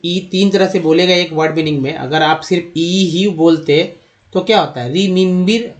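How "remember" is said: रिमिम्बिर with every vowel as i, as the mistaken reading; wrong pronunciation. Shown as a demonstration. Teacher warning students, mock wrong रिमिम्बिर. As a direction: say रिमिम्बिर as the wrong all-i version. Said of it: "गलत उच्चारण".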